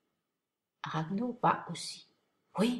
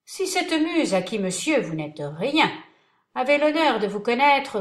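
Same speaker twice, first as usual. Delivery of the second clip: mock polite; 3 semitones higher, 6 dB louder than usual. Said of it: "Cyrano, très poli".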